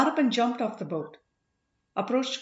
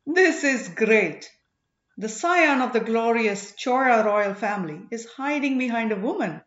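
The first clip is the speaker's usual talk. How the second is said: mocking; 3 semitones higher, 6 dB louder than usual. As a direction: jeer at the hiding prince. Commander mocks after guffawing.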